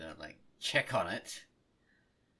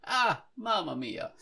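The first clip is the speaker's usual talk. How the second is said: put-on Italian accent; 2 semitones higher, 4 dB louder than usual. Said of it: "my Mario version".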